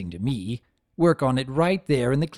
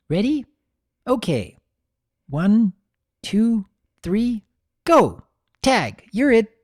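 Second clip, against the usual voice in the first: put-on high, loud giddy child; counting down then shouting for the game; filly calling out her tag game; playful countdown; 9 semitones higher, 5 dB louder than usual.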